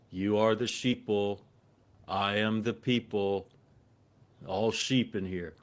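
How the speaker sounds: slow, deliberate taunt, each word spaced; slow mock lecture. Man on the plane taunting passengers, slow and deliberate. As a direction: drawl it out like a smug preacher. Stranger taunts him at urinal.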